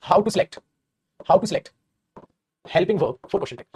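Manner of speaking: every word spaced out very slowly for copying; slow dictation. Shown as a demonstration. Teacher to class, dictating the heading very slowly. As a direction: say it as if students are writing it down.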